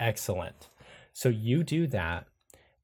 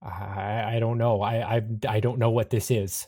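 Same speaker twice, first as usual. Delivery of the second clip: mild panic, stammering over the words; understated panic, hesitant and unsure; panicked; 3 dB louder than usual. Acted. Panicked Arden tells Iris their doubts, mildly panicked. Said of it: "Arden looks at you panicked and says".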